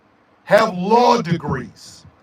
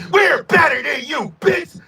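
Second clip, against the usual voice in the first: mock arrogant; 3 semitones higher than usual. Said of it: "Here's Mississippi".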